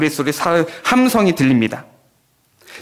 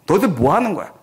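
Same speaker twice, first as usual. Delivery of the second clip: mocking; 3 semitones higher than usual. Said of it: "하면서 조롱하면서".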